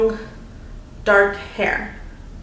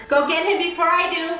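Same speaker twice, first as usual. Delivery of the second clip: put-on much higher, eerie girl's cry at contained volume; final mock yell; 8 semitones higher, faster than usual. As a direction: imitate the creepy voice peaking in pitch. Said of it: "a final yell".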